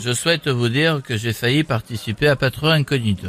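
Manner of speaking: low-pitched mock politician; deadpan political impression; Eric Ciotti. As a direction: announce it formally, with a southern French accent. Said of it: "on a Eric Ciotti avec nous".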